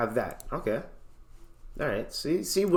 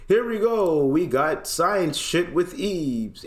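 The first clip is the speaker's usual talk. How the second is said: mock excited; 5 semitones higher, slower than usual. Streamer starts a science term.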